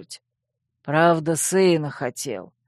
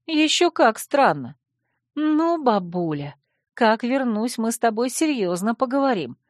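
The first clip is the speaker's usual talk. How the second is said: angry grumble; 6 semitones higher than usual. A narrator's reading. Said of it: "сердито буркнула я".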